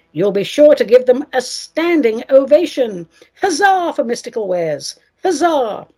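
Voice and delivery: upbeat sponsor read with rhymes; cheerful rhyming commercial pitch. Acted. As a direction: sell the shop like a radio ad.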